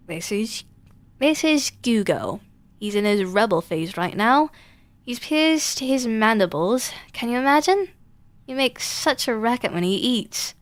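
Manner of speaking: a lightly voiced doting mother, gushing; proud mother. Lady Mantis gushing to a passing incubus, mildly doting mother voice. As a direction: show off your child like a proud mum. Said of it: "loved her children and considered it her sacred duty to tell".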